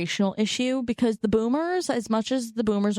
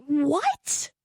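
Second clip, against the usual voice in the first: baffled mom. Retold or imitated. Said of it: "She'd be like".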